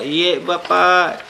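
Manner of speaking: slow, polite demo reply; teacher modelling how to answer a father politely. Shown as a demonstration. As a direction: model a respectful, unhurried answer. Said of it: "Yang sopan".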